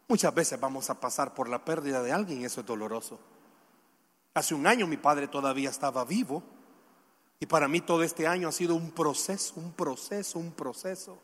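subdued, heavy-hearted testimony; somber reflection. Real, not acted. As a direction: speak gently from personal grief. Sombre turn to father's death.

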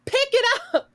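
sharp high yell; yelling at the neighbor again; retold yell. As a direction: bark the order at her. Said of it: "I said".

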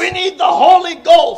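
high, forceful pulpit delivery; preaching hard. Retold or imitated. Preacher acts out the man who started preaching, hard and high. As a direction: preach it as hard as you can. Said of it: "preaching just as hard as he could".

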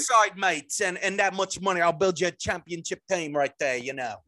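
lightly voiced Cockney Arsenal fan; mock Cockney. Fictional Arsenal fan promising a championship team, lightly done Cockney. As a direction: keep up a light put-on Cockney. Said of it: "Well, it's more like Cockney".

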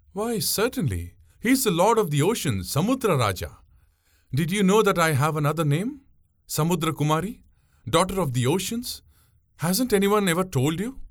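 proud. Acted. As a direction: show off her sea-born name. Pungureli boasts of her name.

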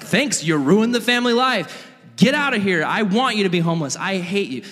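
high-pitched mock tirade; angry father. Dad disowns the son coming home, angry. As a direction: act out a dad throwing his son out.

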